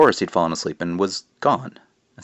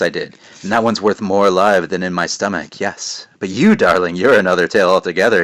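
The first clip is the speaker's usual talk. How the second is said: creepy witch voice; 5 dB louder than usual. Acted. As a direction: savor each word like a witch eyeing dinner. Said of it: "Creepy voice, isn't it?".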